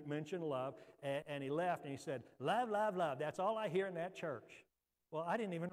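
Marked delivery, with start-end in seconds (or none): 2.4-4.7 imitating a dismissive complainer; retold scoff at a church saying; mocking. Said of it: "so I was mocking him".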